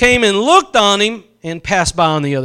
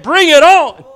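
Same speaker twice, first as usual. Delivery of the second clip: bold challenge; 7 semitones higher, 5 dB louder than usual. Retold or imitated. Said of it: "but Jesus said".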